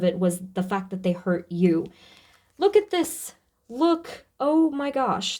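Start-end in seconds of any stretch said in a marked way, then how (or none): 2.6-5.4 much higher, excited pointing out; real astonishment at what she sees; high surprised exclamations at the cards; excited discovery. Real, not acted. Sudden discovery in tarot spread.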